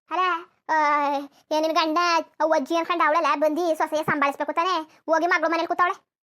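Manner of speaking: loud, outraged complaining; loud outraged mother ranting about the mother-in-law; indignant rant. Acted. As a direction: lash out at the absent mother-in-law.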